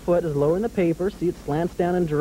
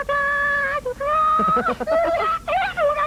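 puppet giggle. Acted. Puppet dragon laughs at host.

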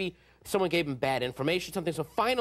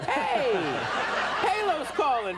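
imitating a cheery caller, higher, with a laugh; happy and excited; 7 semitones higher, slower than usual. Palo announcing himself on the recording, excitedly. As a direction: bounce it up like good news. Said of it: "he sounded really happy and excited".

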